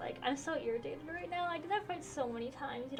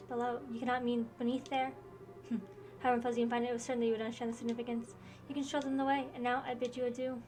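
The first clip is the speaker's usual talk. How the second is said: lightly voiced game characters in a dueling scene; reading game dialogue aloud. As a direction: read each character's line with mild drama.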